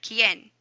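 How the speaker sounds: ¿Quién? with the accented é clearly stressed. Shown as a demonstration. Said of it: "You can hear it".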